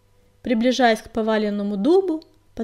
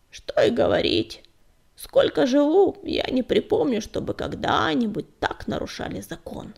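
put-on gloomy old tom; 2 semitones higher than usual. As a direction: mutter it darkly. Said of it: "мрачно обронил Безух".

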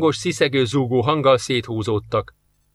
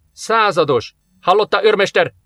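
higher, sharp officer's reprimand; rászólás; 6 semitones higher, 3 dB louder than usual. A narrator's reading. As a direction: pull a soldier into line, pitch raised. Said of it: "szólt rá Jarisov". (szigorúan rászólva)

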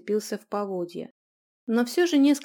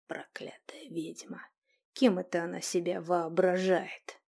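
spiteful whisper; 2 semitones lower than usual. Acted. The prior curses the witch under his breath. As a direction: mutter it so she won't hear.

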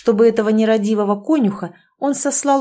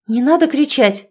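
indignant; 5 semitones higher, 4 dB louder than usual. Acted. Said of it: "возмутилась Ирина".

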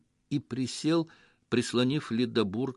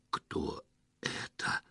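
hoarse, unvoiced croak, slow; terrified croak of a man who sees a monster; 8 dB quieter, much slower than usual. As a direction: squeeze it out through a dry, scared throat. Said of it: "выпершил Лёха".

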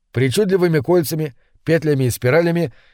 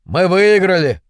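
high, triumphant call; gleeful proclamation; proudly announcing; 5 semitones higher, 4 dB louder than usual. A narrator's reading. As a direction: declare victory with pride, pitch raised. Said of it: "гордо объявили двое".

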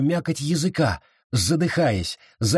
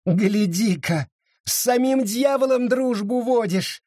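bitter mockery; 9 semitones higher than usual. Sara mocks Abita bitterly for befriending the devil. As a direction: sneer it with bitter scorn. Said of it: "С горькой усмешкой заговорила Сара".

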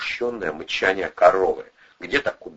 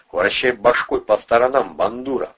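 loud, higher barked order; commanding; 4 semitones higher, 6 dB louder than usual. A narrator's reading. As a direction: bark the order. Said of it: "приказал Атасов".

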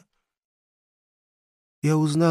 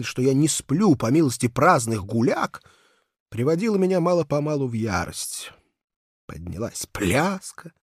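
usual speaking voice

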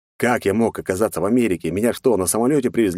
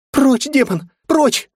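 very high, loud panicked scream; terrified shriek; 6 dB louder, much slower than usual. A narrator's reading. Frightened girl screaming the demon away.

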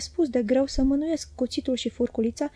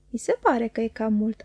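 smiling. Acted. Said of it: "am răspuns eu zâmbind".

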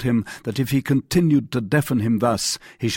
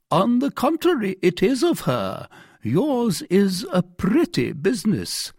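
accusing commissary; 10 semitones higher than usual. A narrator's reading. Commissary confronting the prisoner about his wife, accusing. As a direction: accuse the prisoner in a raised pitch.

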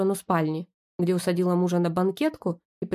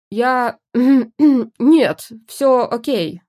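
flustered cover-up; 4 semitones higher, 8 dB louder, much slower than usual. Acted. Flustered wife covering on phone.

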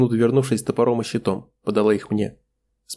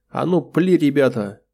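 shouted command; 4 semitones higher, slower than usual. A narrator's reading. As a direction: bark the order to fire. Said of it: "произнеслась команда".

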